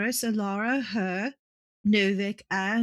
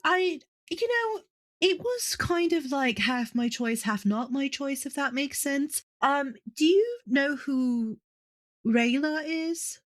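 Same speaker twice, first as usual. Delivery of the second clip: higher, flustered excuses to mum; nervous explaining; 4 semitones higher than usual. Acted. Daughter fumbling nervous excuses to her stern mother. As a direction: squirm while you explain yourself.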